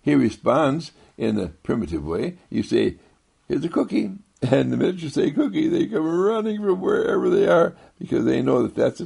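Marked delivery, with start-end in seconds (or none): 3.5-4.1 high sing-song coaxing; bright high call to a pet; sing-song to a dog. Pretend. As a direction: coo it like offering a dog a treat. Sweet talk to a dog.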